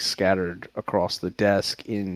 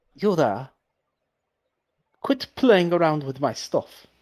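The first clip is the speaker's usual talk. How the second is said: put-on child's voice, higher; 8 semitones higher, 3 dB louder than usual. Voicing an unseen speaker who scolds a player: child's voice. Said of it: "it is the voice of, like, a child".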